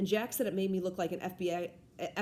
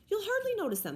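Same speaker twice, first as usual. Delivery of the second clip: cheerful; 12 semitones higher than usual. A narrator's reading. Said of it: "trying to be cheerful".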